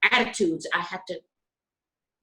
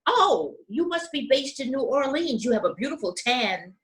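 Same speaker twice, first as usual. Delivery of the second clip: pitched up high on the oh, then settling into a sugary tone; mock sweet remark; 5 semitones higher than usual. Coworkers teasing the black stewardess, mock sweet high oh. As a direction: hand her a fake compliment, syrupy and high. Crew mocking her dark skin.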